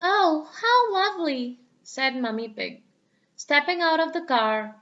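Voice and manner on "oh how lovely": pleased. Acted. Mummy Pig's voice.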